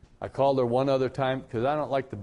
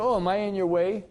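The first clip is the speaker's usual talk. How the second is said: higher-pitched mild imitation of a woman stranger; retold polite woman; 7 semitones higher, 4 dB louder than usual. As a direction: lightly voice a polite shopper, pitched up.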